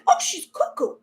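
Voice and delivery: high mock scoff; mocking critic. Doubter dismissing her, high mock voice. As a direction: toss it off as a sneering doubter. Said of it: "If they're saying".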